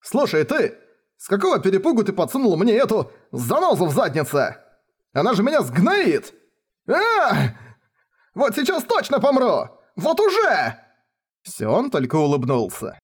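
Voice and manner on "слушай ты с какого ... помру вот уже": terrified cry, pitched way up; panicked wail. Acted. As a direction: shriek that she'll finish him off now. Rayner panics about Ferris.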